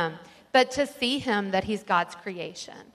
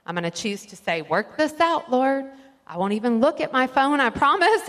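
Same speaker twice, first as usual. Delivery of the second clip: earnest mock prayer; 3 dB louder than usual. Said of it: "you can say".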